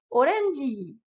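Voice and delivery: orange as orenji; Japanese orange. Shown as a demonstration. Teacher modelling orange for learners. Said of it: "répète après moi".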